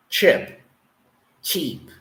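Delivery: chip short, then cheap with a long ee, dropping; modelling chip versus cheap; minimal pair drill. Shown as a demonstration. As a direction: contrast clipped chip with drawn-out cheap. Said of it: "the E is a longer sound".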